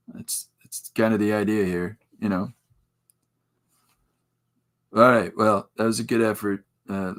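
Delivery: lightly nasal, apathetic coach voice; a hint of a bored, nasal coach; H. Jon Benjamin coach. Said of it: "that nasally voice".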